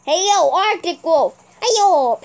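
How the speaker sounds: hey yo, called out loud; calling out. Real, not acted. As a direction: hail another player's wolf. Calling out to another player.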